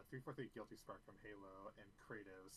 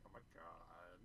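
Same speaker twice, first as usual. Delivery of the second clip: put-on valley girl; 4 semitones lower, 5 dB quieter, slower than usual. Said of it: "my own voice and I'm like".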